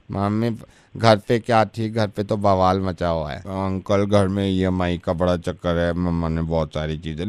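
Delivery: put-on a light, sweet child's voice, slow and soft; lovingly, as the kid. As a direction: quote the boy innocently and sweetly, a little slowly. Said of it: "इतने प्यार से उसने बोला". (बच्चे की तरह प्यार से, धीमे और नरम)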